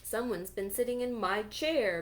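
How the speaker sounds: mild bellow from the big bear; great big voice. Acted. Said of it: "bellowed Papa Bear in his great big voice".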